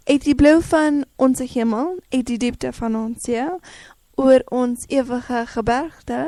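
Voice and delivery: measured Afrikaans verse recital; poetry recital. Shown as a demonstration. Guest settles listeners with Afrikaans poetry, recited in measured lines. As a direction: recite it line by line with pauses. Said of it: "a little bit of Afrikaans poetry".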